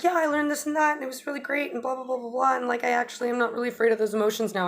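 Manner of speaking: mock eager bro babbling; rambling excitement. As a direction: rattle it off, too happy to stop. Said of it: "And the sun is like".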